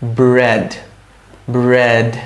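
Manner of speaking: "ব্রেড" with lips pressed on the b, drawn out; careful, elongated "ব্রেড" for learners to copy; pronunciation demonstration. Shown as a demonstration. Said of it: "এইভাবে করে হচ্ছে প্রনাউন্সিয়েশনটা".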